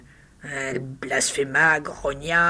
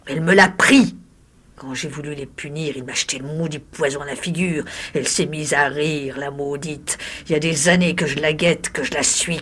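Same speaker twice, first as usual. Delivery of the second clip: hoarse voice. Acted. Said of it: "d'une voix rauque".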